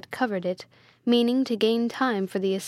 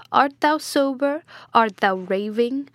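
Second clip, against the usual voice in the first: loud, irate questioning; acted impatience, raised voice; exasperated demand; 3 semitones higher, 5 dB louder than usual. A narrator's reading. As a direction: berate a muddled servant. Master berating a muddled servant.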